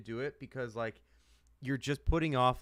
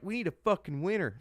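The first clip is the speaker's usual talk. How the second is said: pumped-up American sports demand; fired-up demand; 7 semitones higher than usual. Retold or imitated. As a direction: belt it like a fed-up fan. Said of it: "the way we thought is like".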